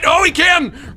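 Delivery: high, loud startled cry; panicked yelp. Real, not acted. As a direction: squeal it out in panic. Panicked yelp at chasing enemy.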